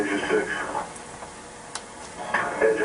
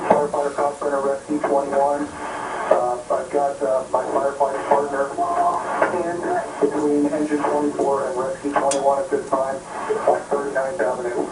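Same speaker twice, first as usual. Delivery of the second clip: urgent distress; 6 semitones higher than usual. Real, not acted. Trapped firefighter reports Mayday over radio.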